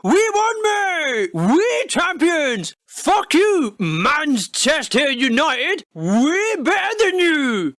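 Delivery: hammed-up bragging supporter; boasting football fan. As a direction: fan gloating at Manchester United, slow. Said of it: "post a Facebook status boasting".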